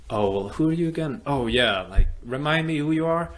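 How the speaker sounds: a hammed-up careless coach voice; mock coach. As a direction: toss it off like a coach who forgot you. Mocking the dismissive coach.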